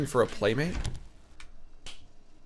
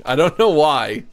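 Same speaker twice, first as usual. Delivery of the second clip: laughing while talking; 7 dB louder than usual. Real, not acted. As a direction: laugh through the words. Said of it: "so funny".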